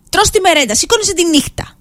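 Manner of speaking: worked-up irritation. Real, not acted. Co-host griping about late-night Merenda snacking, worked-up irritation. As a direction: gripe about it, getting riled. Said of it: "τώρα πήρες σε άγριες διαθέσεις".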